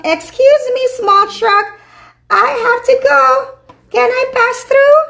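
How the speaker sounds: high, sweet asking voice; a lightly voiced polite big sweeper; polite street sweeper. A narrator's reading. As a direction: ask nicely to get by.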